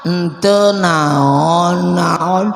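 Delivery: low, drawn-out mock-tearful reply; hammed-up whimper; whimpering child. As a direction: answer like a sulky crying child. Crying child answers the grandfather.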